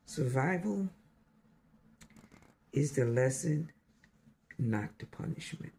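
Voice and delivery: measured recital with long pauses between phrases; poem recitation. Real, not acted. Sharing a new poem with listeners, poetic recital. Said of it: "poetic poem with you".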